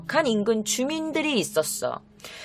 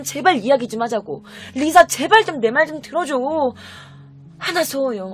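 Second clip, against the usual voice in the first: earnest appeal, rising at the end; acted pleading. Man chasing Lisa to talk, acted pleading. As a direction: keep begging to be heard. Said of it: "이렇게 호소하고 있었대".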